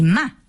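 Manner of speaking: ma falling sharply; fourth tone ma. Shown as a demonstration. Teacher showing the falling fourth tone. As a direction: drop ma hard from high. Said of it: "que es la cuarta".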